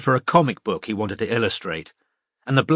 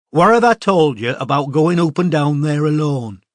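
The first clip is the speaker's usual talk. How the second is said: a raised, higher scolding voice, louder; scolding older girl; 5 semitones higher, 5 dB louder than usual. Acted. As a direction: scold the toddler like a big sister. Older girl scolds wandering toddler.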